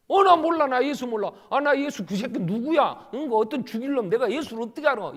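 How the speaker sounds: 크게 소리치며 잡아떼기; 겁에 질려 막 잡아떼듯; 다급한 부인. Acted. 베드로가 예수를 부인함. (추궁당하는 베드로, 크게 잡아떼는 부인)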